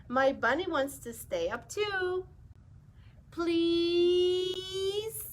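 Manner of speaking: lightly voiced pigeon begging to stay up; a hint of a wheedling bird; pigeon pleading. Pigeon character voice.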